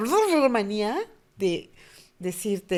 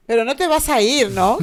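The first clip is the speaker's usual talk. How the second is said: put-on louder, higher pleading kid; imitating anxious child; 4 semitones higher, 10 dB louder than usual. Little girl pleading with her mother, loud and higher. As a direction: beg her not to leave.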